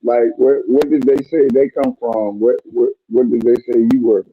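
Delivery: sounds like underwater; dull, muffled bad mic; muffled bass only. Real, not acted. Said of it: "but you sound muffled".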